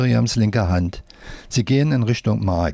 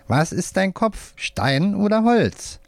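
teasing puppet voice; 9 semitones higher, slower than usual. A narrator's reading. Puppet teases the boy.

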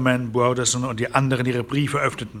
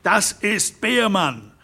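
higher, slow outraged cry; shouting; 7 semitones higher, slower than usual. Acted. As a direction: cry the name out in alarm. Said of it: "schrie Harron Derrick". (Derrick schreit empört auf)

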